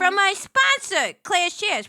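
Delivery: slow, announcer-style sponsor plug; a hammed-up sponsor spot; mock ad read. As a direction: read it like a radio ad.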